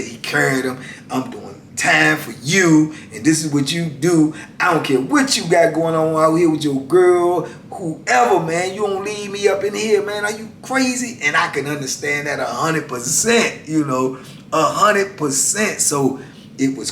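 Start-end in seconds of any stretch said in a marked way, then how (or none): 1.1-11.2 rising, louder mock rant at the brother; retold anger. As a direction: build from firm to high disbelief. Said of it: "He was mad".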